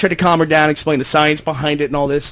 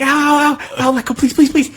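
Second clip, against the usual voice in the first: high, hammed-up yelps and pleading; mock yelps of pain; 11 semitones higher than usual. Mimicking a bitten woman yelping at the horse, high mock pain. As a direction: imitate her yelping ow in a high voice. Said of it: "she's like".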